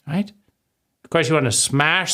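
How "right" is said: high exasperated where. Acted. Searching in frustration.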